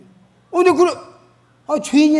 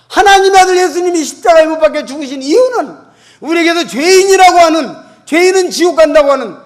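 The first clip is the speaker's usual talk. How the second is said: loud, emphatic sermon delivery; fervent pulpit preaching; preaching at full force; 8 semitones higher, 11 dB louder than usual. Acted. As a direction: proclaim it to the whole congregation. Preaching climax.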